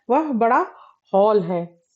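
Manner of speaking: हॉल with a rounded ऑ, not हाल. Shown as a demonstration. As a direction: say हॉल with an English ऑ. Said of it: "हाल की जगह पर अगर हॉल बोला जाए". (हॉल में ऑ ध्वनि)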